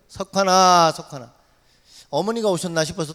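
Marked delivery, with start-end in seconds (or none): 0.1-1.3 loud name call, fading on the repeat; imitated calling out. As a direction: call out as an unseen visitor, then drop away. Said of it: "누가 또 저를 불러요".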